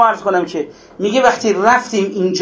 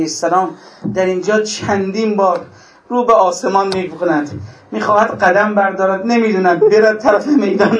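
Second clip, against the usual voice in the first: mourning recitation. Acted. Mourning recitation of Ali Akbar.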